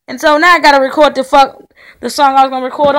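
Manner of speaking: loud frustrated rant; real anger. Real, not acted. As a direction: push it out loud, fed up. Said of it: "I'm really fucking pissed off".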